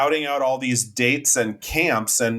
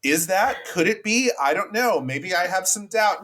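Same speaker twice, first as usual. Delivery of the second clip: imitating doubtful wondering; 6 semitones higher than usual. Imagined character wavering over recognising someone.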